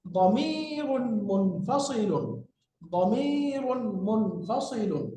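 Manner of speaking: very slow, stretched-out syllables; slow recitation of an Arabic term; drawn-out model pronunciation. Shown as a demonstration. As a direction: draw each long vowel right out for learners. Teacher models Arabic term for memorizing.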